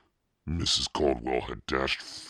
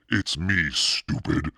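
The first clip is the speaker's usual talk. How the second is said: higher, louder taunt; mocking cry; 3 semitones higher, 5 dB louder, slower than usual. A narrator's reading. Sister taunting her scared brother, louder taunt. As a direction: jeer at him. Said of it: "she cried".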